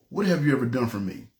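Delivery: a low, hushed voice of God asking. Retold or imitated. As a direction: ask it low and heavy, holding back. God's question, first telling.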